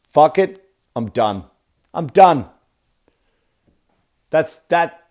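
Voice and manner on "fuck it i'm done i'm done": mock furious Michelangelo. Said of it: "he went".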